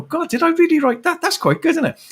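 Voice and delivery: high, delighted double take at his own words; amused surprise. Real, not acted. Rereading his own book, pleasantly surprised and amused. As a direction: marvel at what you wrote, half laughing.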